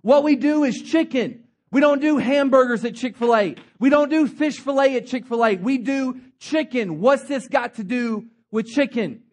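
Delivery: lightly voiced elderly founder insisting; firm founder. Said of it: "he said".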